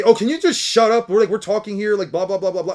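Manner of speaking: lightly hammed-up mock jab; mocking quote. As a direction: sneer out the imagined put-down. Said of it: "look at them and say".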